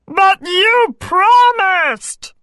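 high, slow, protesting frog; frog crying out. A narrator's reading. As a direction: wail the protest in a drawn-out frog voice. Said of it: "cried the little frog".

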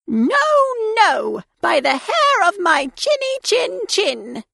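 high defiant piglet; little pig voice. A narrator's reading. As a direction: refuse in a high squeaky voice. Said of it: "pig answers wolf".

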